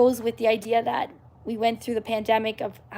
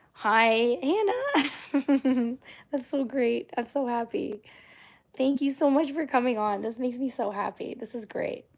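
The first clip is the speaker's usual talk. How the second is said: excited greeting; slower than usual. Shown as a demonstration. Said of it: "and, and I'll say hi".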